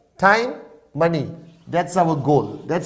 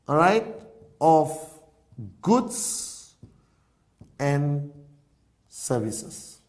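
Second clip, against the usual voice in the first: lightly put-on intellectual, deliberate long pauses; a hint of the learned lecturer, parcelling out words; 3 semitones higher than usual. Shown as a demonstration. Presenter defining network marketing in a mock intellectual voice. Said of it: "let me try to change to my intellectual voice".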